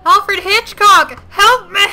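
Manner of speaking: slow, high, loud plea for rescue; mock-desperate plea. Real, not acted. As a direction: beg like a horror film victim. Birds attacking, pleading joke.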